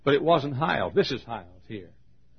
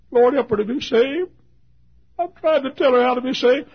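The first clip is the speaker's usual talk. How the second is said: earnest prayer; 12 semitones higher, 6 dB louder than usual. Retold or imitated. Retold prayer at the door.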